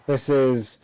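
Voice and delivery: mock cheer sagging into deadpan; sarcastic. Real, not acted. Host opens interviews after a dull race, sarcastic. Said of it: "Can you tell I'm being sarcastic".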